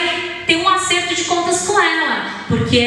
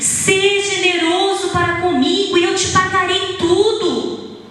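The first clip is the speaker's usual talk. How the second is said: pleading companion; 5 semitones higher than usual. Acted. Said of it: "com entonação".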